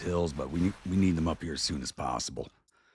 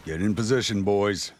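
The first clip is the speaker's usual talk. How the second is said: put-on raised, louder order to the boys; commander's call; 4 semitones higher, 5 dB louder than usual. Player to game troops taking position, commanding call. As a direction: call troops into place, playing the officer.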